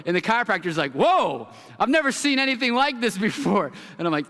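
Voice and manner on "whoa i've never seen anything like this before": surprised. Retold or imitated. Chiropractor seeing the red spine scan, astonished. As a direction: gasp at the scan like a stunned doc.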